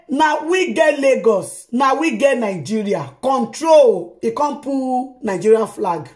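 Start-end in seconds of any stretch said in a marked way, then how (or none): 0.1-4.2 slow, mock gloating proclamation of the son; mock boast. Vlogger reading the son's boast to her viewers, slow and gloating. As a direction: read it out like a swaggering boast. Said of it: "He say".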